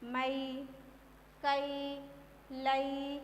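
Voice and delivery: isolated syllables मई, कई, लई with a long ai glide; ai syllable demo. Shown as a demonstration. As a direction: sound out मई, कई, लई one at a time. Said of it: "उसका उच्चारण कैसे करना है".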